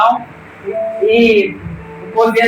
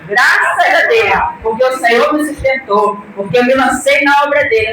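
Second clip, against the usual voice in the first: tearful thanks. Real, not acted. Grieving mother thanking God before the congregation, tearful. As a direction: voice breaking with tears as she gives thanks. Testimony of son's death, emotional.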